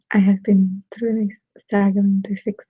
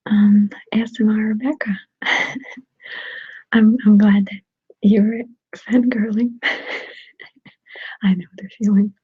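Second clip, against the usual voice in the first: ASMR whisper. Real, not acted. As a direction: whisper casually, as if chatting to ASMR viewers. ASMR whisper held throughout.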